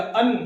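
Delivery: "अन" with a held n at the end; hidden noon sound. Shown as a demonstration. Teacher showing students the tanween, "अन" ending in a hidden noon. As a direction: let "अन" close on a clear noon sound. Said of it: "तनवीन में जो है नून छुपा हुआ रहता है".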